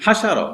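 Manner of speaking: "হাসারও" said short, each vowel unstretched. Shown as a demonstration. Teacher showing how short to say it, brief "হাসারও". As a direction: keep all three syllables of "হাসারও" brief. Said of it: "এরকম short করে বলতে হবে".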